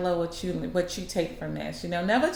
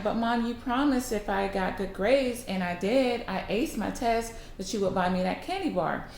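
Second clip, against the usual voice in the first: put-on slightly whiny kid arguing back; a hint of a child's protest; lightly voiced protesting boy; 3 semitones higher than usual. Boy holding mom to her promise, mildly protesting.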